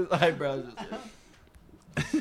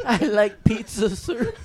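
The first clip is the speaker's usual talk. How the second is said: loud, raised pitch through laughter; laughing quote; 4 semitones higher, 6 dB louder than usual. Real, not acted. Friend joking about last pizza slice, laughing. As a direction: squeeze it out while cracking up.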